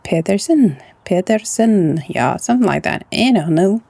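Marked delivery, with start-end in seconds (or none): 0.0-2.0 careful Norwegian "Pedersen", falling at the end. Shown as a demonstration. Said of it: "And this we pronounce".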